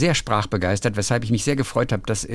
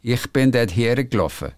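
Ich bin dort hergelaufen with Swiss vowels, gelaufen as geloffe; Swiss accent. Shown as a demonstration. Reading a Swiss listener's letter, a light Swiss accent. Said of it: "wird schnell mal zu geloffen".

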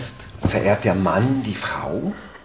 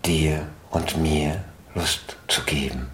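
andächtig; 3 semitones lower than usual. Shown as a demonstration. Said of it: "dazu Sätze sagen".

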